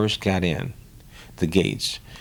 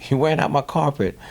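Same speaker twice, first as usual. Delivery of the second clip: higher, mock-exasperated friend telling him to sit down; teasing friends; 7 semitones higher than usual. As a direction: play the amused friend scolding a pacing guy. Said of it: "My friends were saying".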